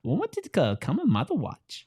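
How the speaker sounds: lightly voiced Yoda, whispered; hint of Yoda, hushed. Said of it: "That was Yoda".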